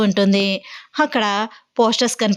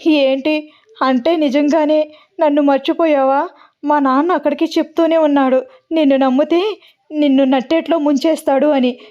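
crying; 4 semitones higher than usual. Acted. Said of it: "అని ఏడుస్తూ ఉంటుంది వాసు".

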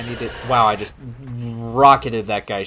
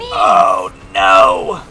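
shouted no; 4 semitones lower, 11 dB louder than usual. Real, not acted. Nearly dies to boss.

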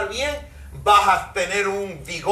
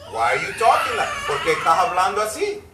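laughing scold; faster than usual. Real, not acted. Scolding defeatist talk, laughing.

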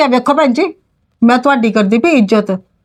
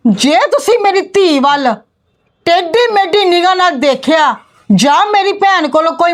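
higher, forceful telling-off; angry rebuke; 4 semitones higher than usual. Acted. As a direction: silence them and be heard. Aunt shouts down the in-laws. (ਉੱਚੀ ਸੁਰ ਵਿੱਚ ਗੁੱਸੇ ਨਾਲ ਝਿੜਕਣਾ)

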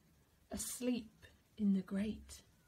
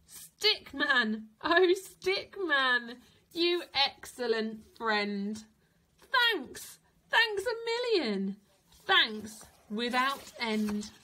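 grateful cheer; 5 dB louder than usual. Acted. Santa thanks Stickman.

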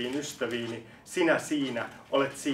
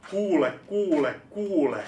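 high repeated call, each word falling; insistent call; 4 semitones higher than usual. Acted. Reciter urges someone to listen, insistent call. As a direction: call out "listen", pitched up at first.

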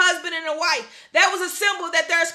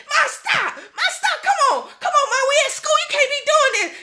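put-on embarrassed kid; 8 semitones higher than usual. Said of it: "I'd be like".

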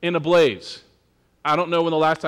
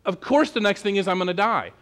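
stunned; 3 semitones higher than usual. Retold or imitated. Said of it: "he's gotta be thinking".

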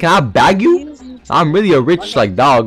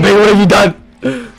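higher, mock-distraught cry; rising dismay; 4 semitones higher than usual. Player reproaching Bagel once more, high mock dismay. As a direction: lift it into a wail of reproach.

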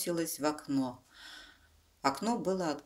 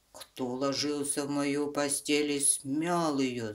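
scary bear roar. Acted. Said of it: "заревел Михаил Иванович страшным голосом".

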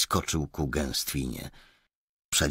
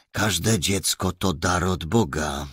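calmly; 3 semitones higher, 4 dB louder than usual. Acted. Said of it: "powiedział spokojnie mężczyzna".

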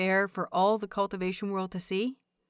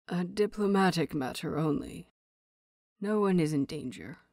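grudging; 3 semitones lower than usual. Acted. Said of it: "he grudgingly says".

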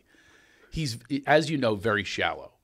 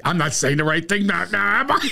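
higher, louder sheepish retreat; flustered backpedal; 7 semitones higher, 5 dB louder than usual. Retold or imitated. Bruce realizing his gaffe, high flustered backpedal. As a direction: fumble to take it back. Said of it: "he goes".

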